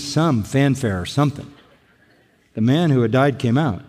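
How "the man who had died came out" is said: understated, plain reading with a falling end; matter-of-fact. Retold or imitated. Preacher rereading the verse about the miracle, matter-of-fact. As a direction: read it as simple fact, no fanfare. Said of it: "That's so matter of fact".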